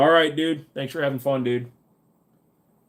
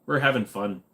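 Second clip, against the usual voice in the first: light Minnesota lilt; Minnesota accent. Shown as a demonstration. Streamer showing off accent picked up living there, light Minnesota accent. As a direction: put on a folksy Minnesota accent. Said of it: "I kinda developed the whole".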